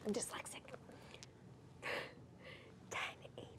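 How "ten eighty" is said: very soft game whisper; hushed, voiceless mouthing. Pretend. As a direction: whisper each word separately. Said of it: "I'll whisper to you".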